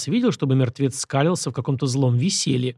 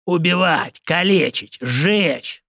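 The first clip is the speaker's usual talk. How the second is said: roaring; 4 semitones higher, much slower than usual. A narrator's reading. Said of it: "взревел он".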